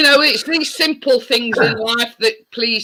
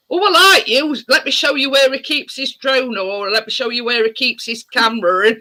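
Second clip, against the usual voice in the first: imagined dog voice. Retold or imitated. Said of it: "He'll say".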